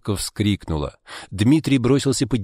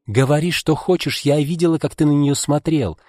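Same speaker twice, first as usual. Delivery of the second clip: voice breaking into a shriek; 6 semitones higher than usual. A narrator's reading. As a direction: let it break into a screech. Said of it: "Голос Маргариты сорвался на визг".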